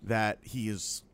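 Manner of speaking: slow, solemn official disclaimer; mock formal statement. Co-host distancing the podcast from Jamoke, slow mock-formal statement. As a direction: announce it like a press release, slowly.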